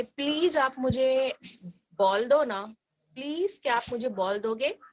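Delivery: gentle, unhurried request; polite asking. Shown as a demonstration. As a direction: coax the ball politely. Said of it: "तो आप अपने दोस्त को बोलो कि".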